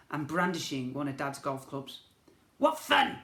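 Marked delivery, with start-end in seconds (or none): 2.6-3.2 laughing. A narrator's reading. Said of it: "he laughed".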